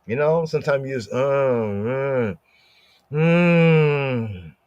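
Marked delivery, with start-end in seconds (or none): 1.1-4.6 wordless inner groan. Shown as a demonstration. Unspoken prayer to God, a wordless hum. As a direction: let the sound come up from the heart. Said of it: "when you make that sound".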